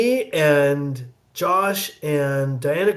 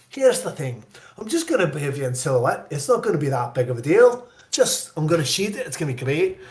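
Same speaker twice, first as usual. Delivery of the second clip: coaxing director with a Scots lilt; mimicked Scottish accent, reassuring words; Scottish brogue. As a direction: imitate a Scot playing it down. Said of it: "he has this great brogue".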